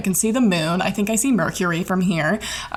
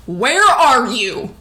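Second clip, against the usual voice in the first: loud, slow, higher demand; alarmed dad; 5 semitones higher, 6 dB louder, much slower than usual. Retold or imitated. Dad picking up the phone, loud and alarmed. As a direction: bark the question like a worried father.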